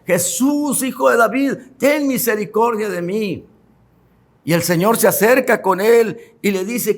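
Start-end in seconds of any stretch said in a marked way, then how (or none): 0.0-3.5 blind man crying out. Retold or imitated. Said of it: "comenzó a gritar".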